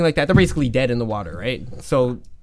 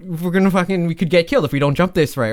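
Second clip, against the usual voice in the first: higher, urgent mock plea; acted alarmed protest; 5 semitones higher, 4 dB louder than usual. Older brother pleading with hooded men at the cliff, alarmed protest. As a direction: protest as if pushed to a cliff edge.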